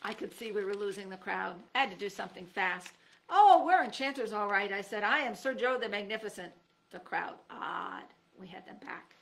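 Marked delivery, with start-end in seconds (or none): 3.3-6.5 much louder grand announcement; boastful proclamation. Acted. Joe boasting to crowd.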